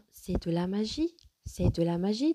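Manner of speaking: exclaimed with "magie" lifted at the end; exclamative. Shown as a demonstration. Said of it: "j'exprime un sentiment".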